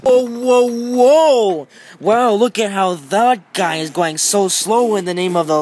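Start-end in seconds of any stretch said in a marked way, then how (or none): 0.0-1.7 mock whoa. Calling to driver.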